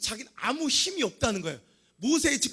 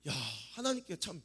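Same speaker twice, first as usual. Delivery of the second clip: ordinary delivery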